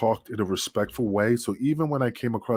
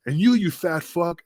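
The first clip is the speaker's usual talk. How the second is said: higher, slow taunt; mock Kiwi insult; 7 semitones higher than usual. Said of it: "And he's like".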